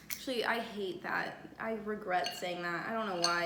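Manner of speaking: soft unvoiced whisper. Real, not acted. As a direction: whisper it like a regret. Takes back "wife me up.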